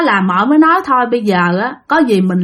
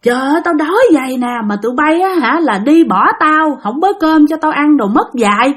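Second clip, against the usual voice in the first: scolding grandma; 3 semitones higher than usual. Acted. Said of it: "chửi quá trời chửi luôn".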